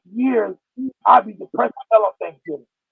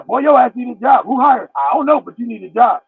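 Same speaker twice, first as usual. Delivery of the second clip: louder mock scolding; mock nagging; 3 semitones higher, 5 dB louder than usual. Imitating people who hound the jobless, mock nagging. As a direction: imitate a pushy nagger.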